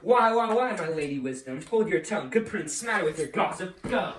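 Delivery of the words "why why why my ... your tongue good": angry retort. Acted. Father turns on the nurse, angry and loud. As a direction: cut her off sharply.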